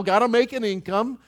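lightly voiced anxious breadwinner; mocking busy worrier. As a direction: play the harried earner ticking off duties. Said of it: "We got a lot of got tos".

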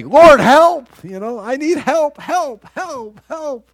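high, loud cry for help, then easing in volume; pleading cry. Acted. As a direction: plead urgently for help, pitch staying high. Acts out urgent prayer for help.

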